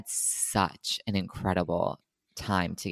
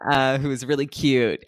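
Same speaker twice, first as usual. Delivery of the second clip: laughing; 3 semitones higher, 4 dB louder than usual. Real, not acted. Laughs about cute neighbor.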